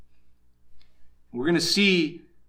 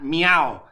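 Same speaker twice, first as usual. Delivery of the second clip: falling cat meow; cat sound; 3 semitones lower than usual. Shown as a demonstration. Preacher gives listeners a cat example, cat sound. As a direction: say meow as the cat's cry. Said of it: "or a cat".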